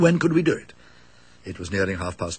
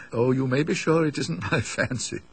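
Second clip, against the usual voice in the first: mock-cheerful words broken by a joyless laugh; dull laugh; 4 semitones higher than usual. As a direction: laugh it off bleakly, without any joy. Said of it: "he said with a dull sort of laugh".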